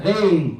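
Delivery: غير with a thin e vowel; too light. Shown as a demonstration. Teacher shows what غير is not, too light. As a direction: let the start of غير stay light, not heavy. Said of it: "Gotta make it heavy".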